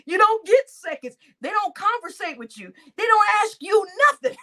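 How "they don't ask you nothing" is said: emphatic. Real, not acted. Building rant about the hood.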